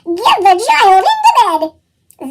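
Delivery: slow, gurgly little monster; gurgling. A narrator's reading. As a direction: gurgle out the answer eagerly.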